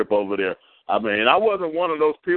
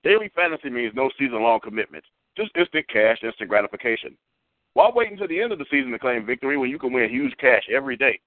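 upbeat hyped-up sponsor read; radio ad read. Acted. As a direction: sell it like a radio commercial. Host reads sponsor ad.

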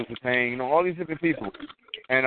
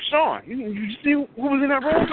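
higher, bursting with excitement; can't contain himself at spotting a hero; retold excited outburst; 13 semitones higher than usual. To his driver Sean, just after spotting Triple H: high, thrilled outburst. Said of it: "Okay, calm down".

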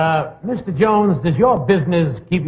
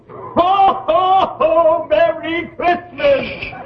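jolly ho ho ho; 11 semitones higher, much slower than usual. Acted. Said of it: "could I hear the guest say something".

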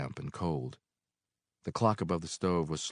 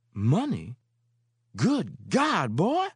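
high, loud amazed cry; landlady shocked by the bill; astonished Mary; 11 semitones higher, 6 dB louder, much slower than usual. Acted. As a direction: gasp at the money.

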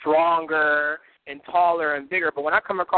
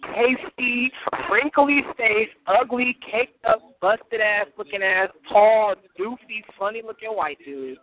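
slow, high, one insult at a time; drawn-out insults; 4 semitones higher, slower than usual. Real, not acted. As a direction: stretch each insult out, pitched up. Slow list of insults at opponent.

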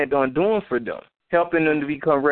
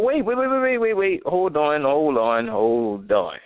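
disbelieving wait. Real, not acted. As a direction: stop short in disbelief. Stops in disbelief at headline.

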